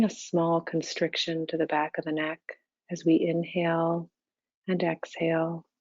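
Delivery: calm, even meditation guidance with long pauses; unhurried, level meditation-teacher delivery; guided meditation. Real, not acted. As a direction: guide them gently into stillness, leaving space between phrases.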